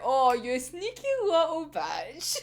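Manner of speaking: slow, laughing, almost tearful fan squeal; mock-scolding a favourite character; playful affectionate insult; admiring tease. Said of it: "It's like".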